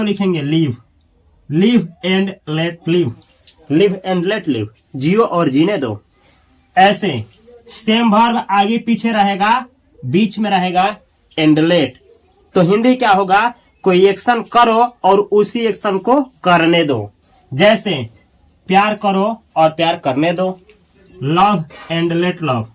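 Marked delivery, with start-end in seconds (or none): 1.5-3.1 each word of live and let live spaced out, very slow; slow model reading. Shown as a demonstration. Teacher drilling the phrase for students, very slow. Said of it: "teacher models the English phrase". 21.3-22.7 drawn out, word by word; slow model reading. Shown as a demonstration. Teacher drilling the phrase for students, very slow. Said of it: "teacher models the English phrase".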